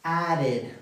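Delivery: "added" with the ending as "id"; two syllables in "added", the last like "id". Shown as a demonstration. Teacher shows students the past form, -id ending in "added". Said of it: "los vamos a pronunciar".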